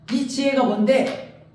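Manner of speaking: scornful question, lightly acted; God rebuking Job. Preacher as God to Job daring to argue, indignantly challenging. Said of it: "이래요, 하나님이".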